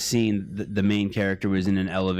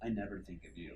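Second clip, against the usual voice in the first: cold quiet putdown; 17 dB quieter than usual. Retold or imitated. The boss's parting quiet put-down to his underling, icy and hushed. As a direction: deliver it quietly with icy disdain. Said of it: "he goes".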